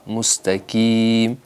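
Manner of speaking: مستقیم with the ق said as a plain ک; wrong pronunciation. Shown as a demonstration. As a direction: mistaken mustakim. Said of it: "مستقیم میں کاف".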